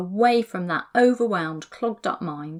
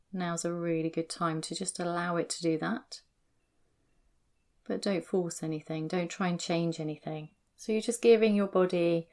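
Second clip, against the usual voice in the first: guided meditation. Acted. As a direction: ease them gently into their body. Leads a body scan meditation.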